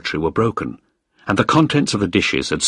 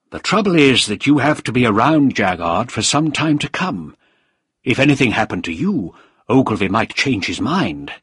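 deliberate, faintly menacing explanation; a hint of a calculating villain; lightly voiced official; 3 semitones higher than usual. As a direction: set out the problem with mild menace. Voices Krieger in dialogue.

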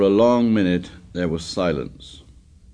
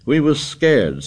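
excitedly; 7 semitones higher, 4 dB louder than usual. A narrator's reading. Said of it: "said Piggy excitedly".

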